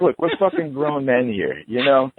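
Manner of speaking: high, heated pleading; worked up. Retold or imitated. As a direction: press the point, exasperated. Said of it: "I'm like".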